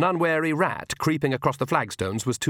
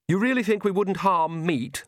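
put-on higher, scornful young vampire; Lacrimosa; 8 semitones higher than usual. Lacrimosa mocks the witches, higher scornful vampire. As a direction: sneer it like a proud young vampire. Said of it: "said Lacrimosa, striding forward".

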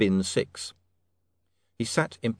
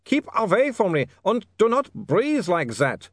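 put-on higher, slow accented wail; 11 semitones higher, 4 dB louder than usual. Otto warning Saccharissa away, wailing. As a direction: cry out in dread, holding her off. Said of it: "Otto wailed".

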